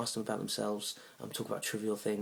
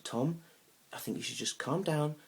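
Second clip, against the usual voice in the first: lightly voiced date, higher pitch; a hint of her measured, higher voice; date calming him; 6 semitones higher than usual. Date telling him to calm down, lightly imitated.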